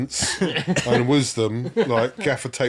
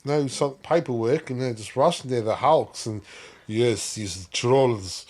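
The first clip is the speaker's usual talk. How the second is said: lightly retold Russian accent. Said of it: "the made up accent".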